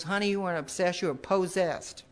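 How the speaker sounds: a hint of a Southern lady calling her honey; southern accent. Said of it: "that southern accent".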